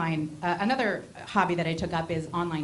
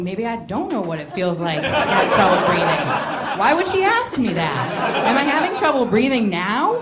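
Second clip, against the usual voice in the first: panicky; 3 semitones higher, 9 dB louder than usual. Retold or imitated. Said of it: "I think".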